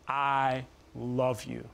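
slow, tender and affirming. Retold or imitated. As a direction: say it slowly with conviction. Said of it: "more affirming, more convicting".

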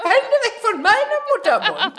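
very high squeal, laughing; silly high voice. Pretend. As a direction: shriek it like a cartoon prude. Squeaky mock line.

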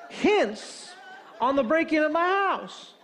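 high-pitched, appalled disbelief; incredulous outrage. Retold or imitated. Homeowner hears of hints for a burglar, incredulous.

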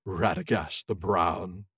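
lightly voiced wizard with slow scorn; a hint of a sneering wizard; scornful Saruman. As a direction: draw out the name with mild contempt. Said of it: "laughed Saruman".

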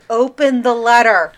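mild mock yell, open the letter. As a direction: yell at the screen. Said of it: "Ben yelled at the T V".

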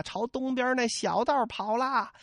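朝东边那小道跑啦 called out high and slow, stretched on 道; high, slow alarm cry on 小道跑啦; shouted. Acted. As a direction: yell the direction 小道 back to the men. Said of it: "朱仝回头喊了一声".

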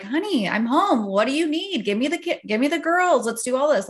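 high, eager helpful husband voice; ideal cheerful husband. Retold or imitated. Imagined husband arriving home offering help, bright and high. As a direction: sing out like the perfect husband walking in. You would have loved Connor be like.

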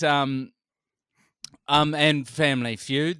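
normal talking voice

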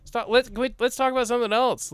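hushed, high, fed-up "shut up"; impatient, fed-up plea to change topic. Retold or imitated. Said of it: "but I'm like".

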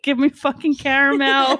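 loud, high demand breaking into laughter; mock angry demand. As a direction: play at bullying, amused and loud. Joining the pretend threat.

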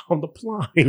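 slow echoed Cockney vowels; mock Cockney accent. Host echoes co-host's film quote, mock Cockney accent. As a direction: copy the Cockney line slowly. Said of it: "Have you seen My Fair Lady?".

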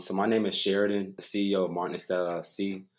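slightly lisped, retainer in mouth; wearing a retainer. Real, not acted. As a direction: talk around a dental retainer. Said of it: "I got my retainers in if I sound a little weird".

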